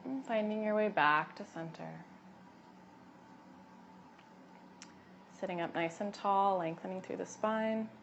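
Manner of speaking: unhurried cues with long pauses between; gentle yoga guidance. Acted. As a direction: lead them calmly through each breath and movement. Guides breathing and gentle movement.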